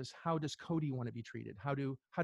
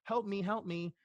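mock whiny victim; 5 semitones higher, slower than usual. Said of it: "like a drowning person".

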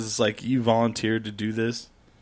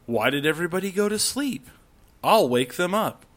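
obnoxious late-night camper; 6 semitones higher than usual. Acted. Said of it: "that one group that's like".

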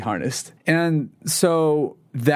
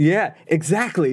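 seductive voice; 5 semitones higher, slower than usual. Retold or imitated. Voicing the tempting addiction.

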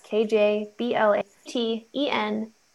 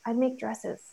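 mousy squeak; 2 semitones higher, 5 dB quieter, slower than usual. Retold or imitated. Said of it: "I just squeaked out in, like, the mousiest voice".

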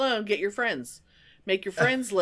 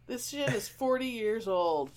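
softer, flat deadpan echo; deadpan repeat; 6 dB quieter than usual. Real, not acted. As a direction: say it again under your breath, deflated. Repeats own exclamation, deflated.

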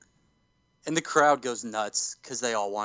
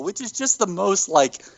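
usual speaking voice

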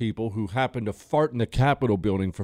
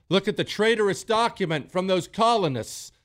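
higher, mock-posh British museum voice; hint of a British voice; mock British curator; 8 semitones higher than usual. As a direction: lightly play a snooty British museum guide. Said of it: "in a museum in Britain".

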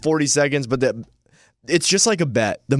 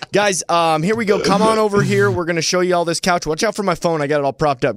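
upbeat promo host; 4 semitones higher than usual. Retold or imitated. Acts out furniture remote pitch.

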